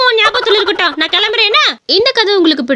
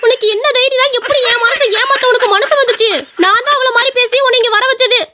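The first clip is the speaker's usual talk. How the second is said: raised, higher pitched furious rebuke; scolding the man who tricked her, higher and angry; 3 semitones higher than usual. Acted. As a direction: tear into him for cheating on her. Jilted woman confronts cheating man.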